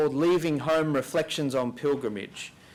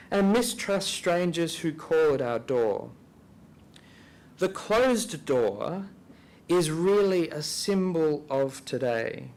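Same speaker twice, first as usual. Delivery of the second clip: slow, deliberate reading with long pauses; measured, reflective reading aloud, each phrase given room; 3 semitones higher than usual. Real, not acted. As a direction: read it out slowly, phrase by phrase. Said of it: "I'll read this slowly".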